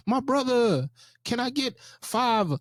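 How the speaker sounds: high, projected preacher imitation; Southern Baptist preacher. Friend mocking the guest's preacher talk on the street. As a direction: preach the request for cash. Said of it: "somebody just on the street being like".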